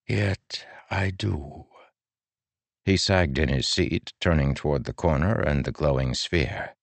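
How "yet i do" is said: put-on slow, soft old man; resigned, slow reply; quiet certainty. A narrator's reading. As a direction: let it land gently and heavily.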